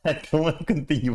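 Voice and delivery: fast, laughing through words; giggling while talking. Real, not acted.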